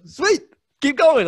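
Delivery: high, slow, loud mock-smug urging; milk the praise jokingly. Urging the fan to keep praising him, high, slow, mock-smug.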